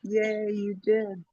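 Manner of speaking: talking with a mouthful of food; words muffled around a bite; mouth full. Real, not acted. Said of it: "I got a mouthful of sandwich".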